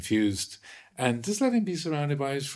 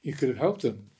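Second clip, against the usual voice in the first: indignant. Retold or imitated. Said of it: "indignant, forthright American".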